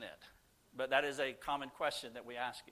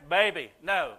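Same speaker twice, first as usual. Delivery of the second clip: laughing warning; 3 semitones higher, 9 dB louder than usual. Retold or imitated. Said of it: "I'm like".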